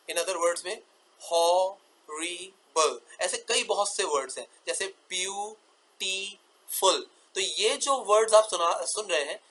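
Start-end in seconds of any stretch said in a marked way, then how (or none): 1.2-3.0 हॉरिबल split as ho, ri, ble with pauses; very slow, separate syllables in हॉरिबल; three syllables. Shown as a demonstration. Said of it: "तीन syllable सुनाई देंगे". 4.9-7.1 ब्यूटीफुल split as beau, ti, ful; three sounds. Shown as a demonstration. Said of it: "ये अपने आप में तीन sounds रखते हैं".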